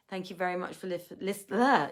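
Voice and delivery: lisping and stumbling from fatigue; tired lisping. Real, not acted. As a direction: trip over the words, exhausted. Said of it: "I'm lisping all over the place 'cause I'm so tired".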